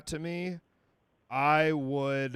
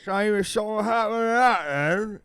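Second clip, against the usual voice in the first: put-on failed Irish accent that slides into British, higher and louder; attempted Irish accent; 8 semitones higher, 10 dB louder than usual. To co-host, a mock threat in a botched Irish accent. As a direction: go for an Irish brogue and land somewhere British. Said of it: "that's more British. I can't really do Irish".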